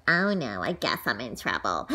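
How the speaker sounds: low, soft worried murmur. Acted. Child realizing she is in trouble, low and soft. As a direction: sink into dread.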